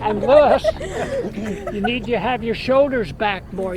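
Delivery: nagging doctor. Retold or imitated. Doctor's nagging peaks, loud.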